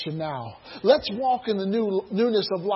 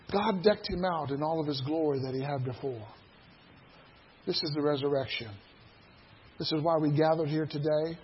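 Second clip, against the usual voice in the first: softer, lower, intimate; quiet earnest sermon voice; hushed earnest preaching; 5 semitones lower, 6 dB quieter than usual. Real, not acted. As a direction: draw them in quietly. Sudden quiet intense stretch.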